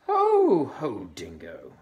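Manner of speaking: very high, loud flattering call. Acted. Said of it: "she flattered".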